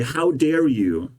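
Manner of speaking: slow, deliberate mock of a girl's scolding; a little girl's reproach, lightly imitated. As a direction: drag out how dare you in light mockery. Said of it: "listening to a little girl cry and say".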